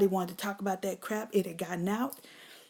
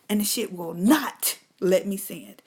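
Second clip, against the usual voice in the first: frustrated whisper. Real, not acted.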